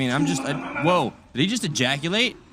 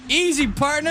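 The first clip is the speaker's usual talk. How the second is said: cowboy voice; 10 semitones higher than usual. Pretend. Cowboy-style calming call.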